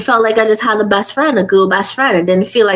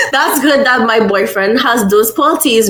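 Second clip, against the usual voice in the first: laughing; 4 semitones higher than usual. Real, not acted. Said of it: "oh my God".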